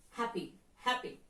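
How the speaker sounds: "happy" with the stress on HAP; stress on first syllable. Shown as a demonstration. Teacher models adjective "happy", stressing the first syllable. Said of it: "first syllable".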